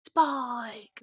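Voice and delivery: drawn-out mock call, held back in volume; mock scream. Co-host copying the father's scream to the mainland, mock calling. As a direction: stretch the name like a far-off call. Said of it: "have him scream out to the mainland".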